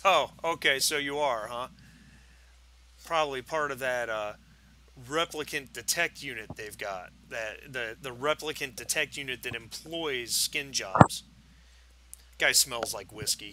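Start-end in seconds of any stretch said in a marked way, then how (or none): 0.0-11.2 put-on lightly slurred drunk; drunk slurring. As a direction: slur the words like a drunk. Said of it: "He's kinda slurring his words a little bit".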